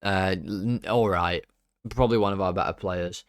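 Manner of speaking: usual speaking voice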